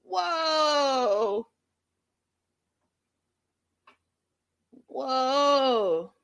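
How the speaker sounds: high, drawn-out whoa; long high whoa of shock; stunned whoa. Real, not acted. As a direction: react in real disbelief. Shocked reaction to the call.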